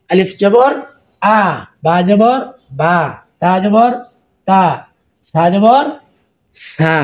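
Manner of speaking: আলিফ জবর আ spelled out clearly, letter, vowel sign, then sound; spelling drill. Shown as a demonstration. Teacher spelling Arabic letters for students, clear drill. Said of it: "আপনাকে উচ্চারণ শিখতে হবে".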